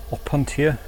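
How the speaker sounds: "opuntia" said as "ah-PUN-tee-a", t kept clear; "opuntia" spelled out with a clear t, "ah-PUN-tee-a"; opuntia as "ah-poon-tee-a". Shown as a demonstration. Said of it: "Is it an op".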